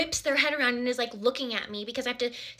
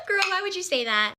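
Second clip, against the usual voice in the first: laughing, higher self-scolding; laughing at herself; 6 semitones higher than usual. Real, not acted. To viewers about her own blunder, laughing. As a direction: laugh through the question at yourself. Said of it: "laughing at herself".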